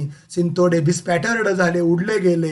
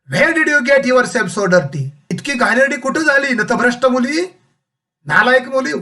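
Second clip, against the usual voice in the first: raised-pitch acted scolding; mildly angry mother; 4 semitones higher than usual. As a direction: play a mother telling off a grubby child. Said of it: "राग येणार ना". (रागावलेल्या आईचा हलका अभिनय)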